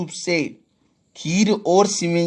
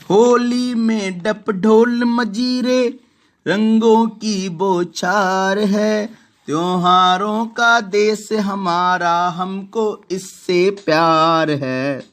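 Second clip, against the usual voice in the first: slow, raised, sing-song verse; poem recitation; 2 semitones higher, slower than usual. Acted. Teacher reciting the Holi verse to the class, slow and proud. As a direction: declaim the Holi lines slowly and proudly.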